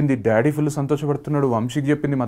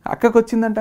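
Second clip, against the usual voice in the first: mocking friends' jibe, retold; imitating a sneering friend; sarcastic taunt; 5 semitones higher than usual. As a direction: needle him like teasing friends. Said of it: "అని sarcasm".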